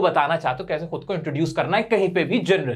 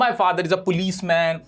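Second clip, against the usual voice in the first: "My father is a policeman" spoken very slowly and deliberately; slow careful model; much slower than usual. Shown as a demonstration. Teacher models how to introduce your father. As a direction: say it slowly, word by word. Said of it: "अपने पापा के बारे में बताओ".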